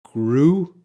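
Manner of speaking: "Grew" said slowly and clearly, one syllable with a long oo; pronunciation demo. Shown as a demonstration. Teacher modelling "Grew" for students, clear and slow. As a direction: model "Grew" for the class, rising at the end. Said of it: "How to pronounce this?".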